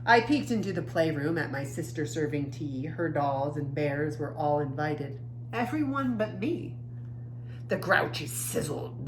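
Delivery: lively, expressive picture-book reading; reading to children. A narrator's reading. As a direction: read the story to young kids with feeling. Reads picture book aloud.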